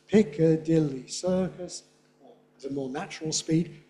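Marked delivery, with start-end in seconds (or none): 0.1-1.8 slow "Piccadilly Circus", beats on PIC, DIL and CIR; deliberate three-beat timing. Shown as a demonstration. Teacher showing timing to class, slow three beats. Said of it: "remember the timing difference".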